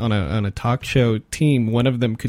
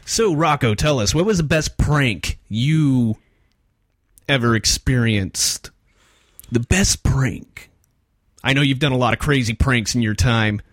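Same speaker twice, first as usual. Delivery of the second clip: put-on intense frat boy host. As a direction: lean in hard like a creepy DJ. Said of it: "you're freaking me out".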